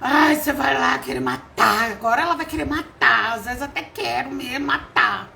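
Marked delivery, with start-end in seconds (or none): 0.0-3.3 louder, mock taunting voice of the enemy; a hint of a gleeful tempter. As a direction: sneer it like the devil teasing.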